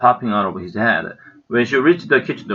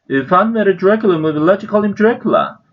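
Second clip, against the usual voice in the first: put-on eager child voice; 10 semitones higher, 4 dB louder than usual. A narrator's reading.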